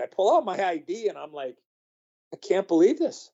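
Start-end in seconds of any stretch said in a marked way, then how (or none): 2.3-3.3 higher, incredulous retelling; mock-astonished storyteller's quote; retold disbelief. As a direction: relive the disbelief, pitch lifted. Retold disbelief at dream coming true.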